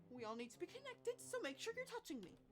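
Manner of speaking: lightly shaky, unsure voice; a hint of shaky nerves. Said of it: "Her voice sounds incredibly shaky and unsure".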